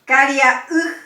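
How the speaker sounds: "Caria, uj" with a loud, punched final "uj"; intensify the last vowel of "Caria, uj"; stress on final vowel. Shown as a demonstration. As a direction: lean hard on the closing "uj". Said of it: "Intensificamos el acento en la última".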